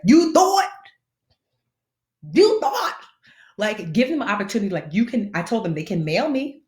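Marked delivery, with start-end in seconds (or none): 0.0-3.0 high, sing-song "you thought"; mocking taunt. Mocking the bank that kept calling, sing-song taunt. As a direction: tease them like they lost.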